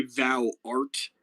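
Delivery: "thou art" with the weight on "art"; light "thou", emphatic "art"; stress on art. Shown as a demonstration. Showing students how stress feels, "thou art" leaning on "art". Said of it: "way more emphasis on art than thou".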